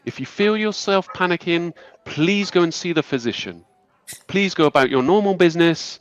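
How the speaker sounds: high, measured voice of a graceful elf leader; calm high elf lady. Acted. Elf lady calming the angry townsfolk, high and measured. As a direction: soothe the crowd with calm authority. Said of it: "this high elf lady".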